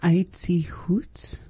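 whispered "Aitzi Hoots?" with a questioning rise; whispered try. Real, not acted. Learner whispering the new phrase back to the teacher. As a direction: try the words under breath, rising. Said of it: "learner tries it".

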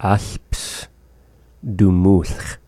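Alpstumulch drawn out very slowly; slow model for learners; very slow repeat. Shown as a demonstration. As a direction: stretch every syllable of Alpstumulch. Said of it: "teacher repeats the word slowly".

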